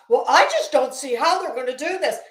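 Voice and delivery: lightly voiced mimicry of a know-it-all YouTuber; mocking Betty. Host mocks YouTuber's clueless legal take in a mild sneering imitation. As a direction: parody her pontificating, a touch snide. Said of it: "her standing out there pontificating about".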